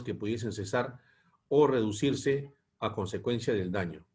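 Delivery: measured lecture read-aloud in phrases; formal, evenly paced reading from a text. Real, not acted. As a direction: read the policy text out to a class. Reads the lesson text aloud.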